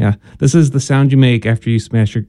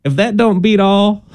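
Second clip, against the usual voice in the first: a hint of a Southern drawl, pitched up; a touch of a Southern accent; 7 semitones higher than usual. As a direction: lightly play a Southern folksy exclaim. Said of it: "your voice getting Southern sounding".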